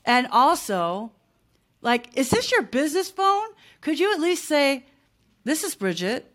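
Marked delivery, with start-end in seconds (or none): 2.2-6.3 higher-pitched indignant question easing off; exasperated mock complaint. Telling off someone who answers with just hello, mildly exasperated. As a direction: needle them with a pointed question.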